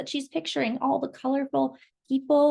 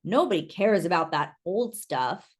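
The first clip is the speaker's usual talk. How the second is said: grumbled; 4 semitones lower than usual. Acted. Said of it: "Mister Muir grumbled".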